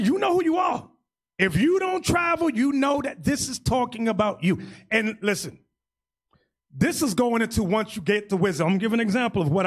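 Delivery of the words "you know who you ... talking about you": fervent preaching. Real, not acted. Preaching at the congregation.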